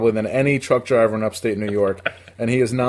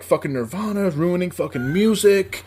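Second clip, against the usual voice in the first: sneering bully; 4 semitones higher than usual. Retold or imitated. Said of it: "they're like".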